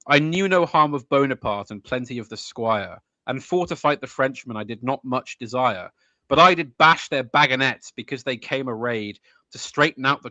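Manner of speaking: rhythmic ballad verse by heart; poem recital. Acted. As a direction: recite with a swinging iambic beat.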